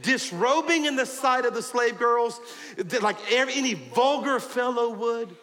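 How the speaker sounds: a hint of mocking sarcasm; sarcastic. Michal lightly mocks her husband David with sarcasm. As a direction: lightly sneer at the king. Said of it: "she said sarcastically".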